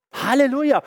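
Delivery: Halleluja! called out high and bright with joy; jubilant cry. Real, not acted. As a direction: burst out in praise. Preacher's jubilant exclamation. (freudiger Ausruf)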